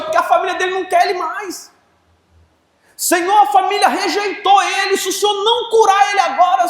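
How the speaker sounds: high, loud pleading prayer; fervent shouted prayer. Acted. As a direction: cry out to the Lord with everything. Loud preaching prayer reenactment. (oração fervorosa aos gritos, aguda e alta)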